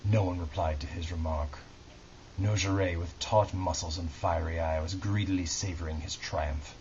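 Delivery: measured, dramatic book reading; story narration. A narrator's reading. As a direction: read it like a solemn audiobook, pausing between phrases. Reads historical novel aloud.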